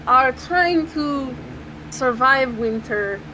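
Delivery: measured, careful delivery with slight put-on accent; Slava. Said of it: "clears his throat and is like".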